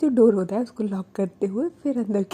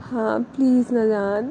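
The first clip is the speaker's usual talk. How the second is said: romantic voice. Retold or imitated. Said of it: "उसकी voice उस time पे काफ़ी रोमांटिक हो रही होती है".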